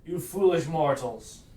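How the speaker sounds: lightly voiced giant villain; a hint of a gloating giant; booming demon lord. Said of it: "The giant just says".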